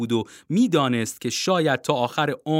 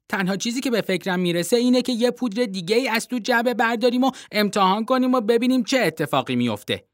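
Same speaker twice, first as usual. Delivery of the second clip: put-on young boy Timothy; 3 semitones higher than usual. Boy Timothy voiced by narrator.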